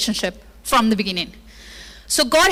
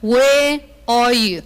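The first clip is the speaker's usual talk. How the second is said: calling out sternly; 3 dB louder, much slower than usual. Acted. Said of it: "how we call him when he did something".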